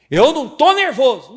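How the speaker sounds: loud, high furious denial; angry shout. Acted. The upset person snaps back at being called nervous, shouting. Angry retort in acted quarrel.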